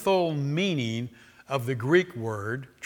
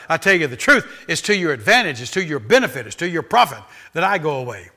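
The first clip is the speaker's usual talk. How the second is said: louder, each phrase pressed; emphasized quote; 6 dB louder than usual. Acted. Preacher quoting Jesus, emphatic. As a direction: drive the promise home. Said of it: "he's emphasized".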